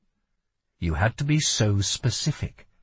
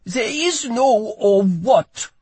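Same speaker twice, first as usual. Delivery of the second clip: put-on slow, high, loud, accented insistence; young foreign guard stressing he has no choice; insistent boy guard; 11 semitones higher, 5 dB louder, slower than usual. A narrator's reading. Boy guard answers Lila's challenge, desperate insistence.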